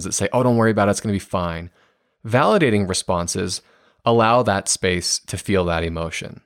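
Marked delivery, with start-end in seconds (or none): 0.3-1.7 breezy, brushing it aside; mock reassurance that shuts the feeling down; dismissive brush-off. Shown as a demonstration. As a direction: wave the feelings away lightly. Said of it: "that bury emotions".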